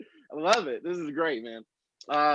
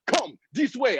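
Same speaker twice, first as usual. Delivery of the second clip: mock Nigerian accent, higher; 5 semitones higher than usual. Guide to people lost in jungle, mock Nigerian accent. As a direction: call it out in an imitated Nigerian accent. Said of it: "I just can't trust that accent".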